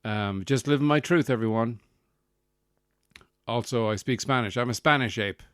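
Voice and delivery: lightly hammed-up defiant announcement; mock self-declared ape. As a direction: proclaim it as a mock ape, starting loud. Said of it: "throw shit at the walls and go".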